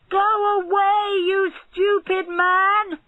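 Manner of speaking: loud, high furious shout; furious shout at barber; angry shout. A narrator's reading. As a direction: drive him off with a yell. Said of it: "he shouted".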